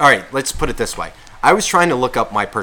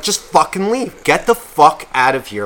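angry kick-out; 3 semitones higher than usual. Pretend. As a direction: throw him out in anger. Kicking friend out, scenario.

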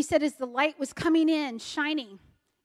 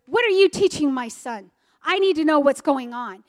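raised, insistent confrontation, retold; retold indignant demand; 2 semitones higher, 4 dB louder than usual. Pastor confronting the teacher about his son, indignant retold demand. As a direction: imitate an upset father demanding answers.

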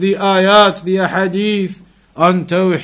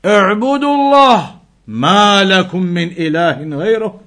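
prophet calling his people; faster than usual. Retold or imitated. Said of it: "they would say to their people".

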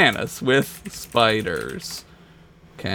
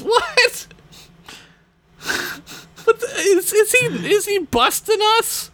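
mad scientist; 5 semitones higher than usual. Acted. Reading villain letter aloud.

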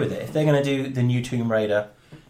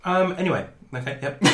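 talking while chewing; mouth full; 4 semitones higher than usual. Real, not acted. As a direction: speak round a mouthful. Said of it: "waiting to finish chewing".

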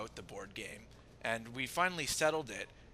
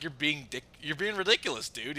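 higher, louder exasperated protest; exasperated retort; 5 semitones higher, 9 dB louder than usual. Retold or imitated. Answering the friend's rant, exasperated retort. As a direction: push back in disbelief.

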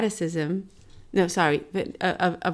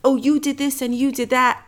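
mocking accuser; 7 semitones higher, 4 dB louder than usual. Mocking cancel-culture accusers.

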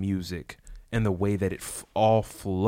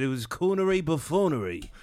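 amused repeat; 8 semitones higher than usual. Retold or imitated. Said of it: "That's what I thought about it".

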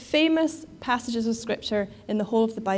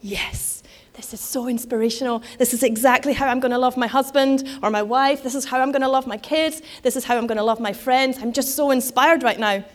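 louder, gushing starry-eyed churchgoer; gushing inspired listener; 5 dB louder than usual. Pretend. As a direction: play the swept-away wedding guest. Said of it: "And we think".

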